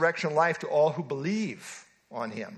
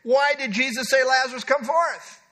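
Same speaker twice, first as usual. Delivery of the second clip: rhetorical cry; 6 semitones higher, 3 dB louder than usual. Retold or imitated. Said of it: "he cried rhetorically".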